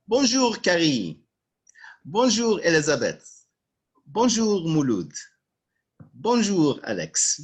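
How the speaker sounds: high bright Bonjour, loud and falling; cheerful greeting. Shown as a demonstration. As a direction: sing out Bonjour like meeting someone. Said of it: "you say".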